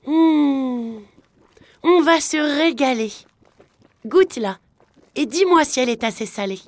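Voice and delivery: high, loud, delighted wife; a hungry wife relishing the soup; eager wife voice. Acted. Wife tells her husband to taste the soup, high and eager.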